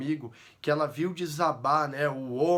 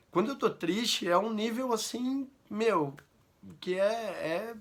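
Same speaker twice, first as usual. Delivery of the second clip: close to tears; 6 semitones higher than usual. Real, not acted. Father telling viewers about his sadness, near tears. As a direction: voice pitched up and strained, fighting tears. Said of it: "vocês vê que começa a chorar".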